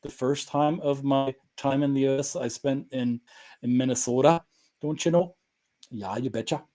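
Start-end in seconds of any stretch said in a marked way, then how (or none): 3.6-6.6 a touch of Minnesota accent; lightly put-on Minnesota folksy lilt; upper Midwestern. Shown as a demonstration. Man shows his Minnesota years, in upper Midwestern accent. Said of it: "may sound a bit upper Midwestern".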